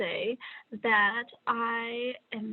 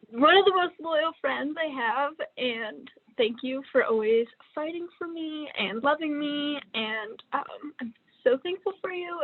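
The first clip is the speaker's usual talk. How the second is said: real emotion, pitch climbing; trying not to lose it; 4 semitones higher than usual. Real, not acted. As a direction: hold back tears while thanking a friend. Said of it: "I just don't wanna lose it".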